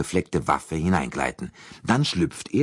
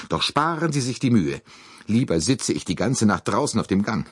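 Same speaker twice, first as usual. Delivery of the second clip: put-on higher, indignant old lady voice; lightly voiced fretful lady; fussy American lady; 7 semitones higher than usual. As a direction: protest like a flustered matron. Mrs Hubbard voiced.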